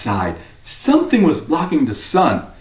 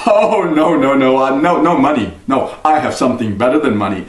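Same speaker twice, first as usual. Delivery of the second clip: sly stranger. Acted. Stranger bargains with Jack for the cow, sly. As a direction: talk the boy into a deal.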